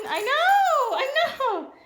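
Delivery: squeaky high soothing; high pet talk. Real, not acted. Owner coos high to her excited dog. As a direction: coo to calm the excited dog.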